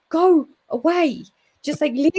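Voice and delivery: mock fed-up outburst, breaking into a laugh; exasperated retort. Retells sending Fred away.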